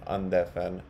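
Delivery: usual speaking voice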